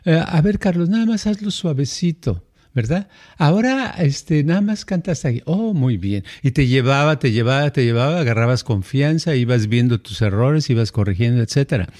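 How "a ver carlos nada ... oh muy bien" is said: gentle teacher. Retold or imitated. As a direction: ease the student along kindly. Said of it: "que decía".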